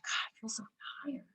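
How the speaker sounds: whispered, worn-out sigh of a line; exhausted whisper. Retold or imitated. Tired person whispering to herself after work, spent. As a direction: breathe it out like you're drained after work. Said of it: "You're just like".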